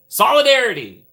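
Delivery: loud, high "Solidarity!"; proud cry for the strikers; rallying shout. Pretend. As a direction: shout it like a picket-line chant.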